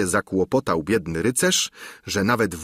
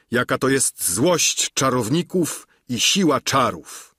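marvelling knight; 4 semitones higher than usual. Acted. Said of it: "wołał".

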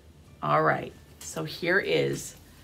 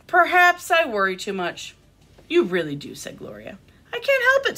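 animated picture-book reading with lifted character lines; expressive storytime delivery; reading to children; 2 semitones higher, 3 dB louder than usual. A narrator's reading. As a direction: read a story aloud to little listeners.

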